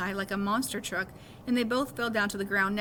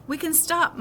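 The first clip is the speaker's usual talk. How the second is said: yell; 6 semitones higher, 5 dB louder than usual. A narrator's reading. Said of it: "Miles yelled from farther up".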